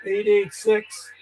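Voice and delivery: "eight eight six" said slowly, each number spelled out clearly; slow careful readback. Shown as a demonstration. Confirming a call number on air, slow and deliberate. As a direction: read the number back slowly so it's logged right. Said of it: "No, I think it's eight eight six".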